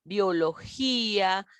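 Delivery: BIOLOGÍA slowly, leaning on the Í before the final A; stressed, separated vowel. Shown as a demonstration. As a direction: draw out "biología" as bio-lo-GÍ-a.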